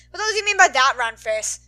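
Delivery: a voiced Bakugo barking at her; angry snap. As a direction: snap back, offended and loud. Bakugo snapping at Ochaco.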